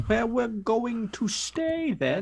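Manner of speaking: sing-song voice. Pretend. Playful sing-song line.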